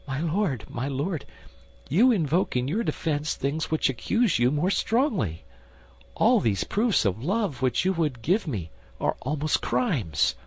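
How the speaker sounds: a queen gently accusing the man who loves her; the queen's voice. Acted.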